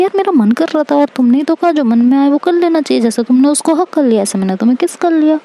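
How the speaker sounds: excited defence. Acted.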